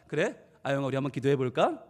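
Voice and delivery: gentle father. Retold or imitated. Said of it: "그래서 아빠가".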